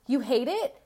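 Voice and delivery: a hint of an outraged mother asking; mock parent repeating the teen's complaint; mock indignant parent. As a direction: toss the question back at the teen with mild scorn. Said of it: "you're gonna be like".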